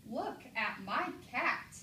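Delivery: "Look at my cat" slow, punched word by word. Shown as a demonstration. Teacher models an exclamation point, slow lifted exclamation. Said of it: "It's higher".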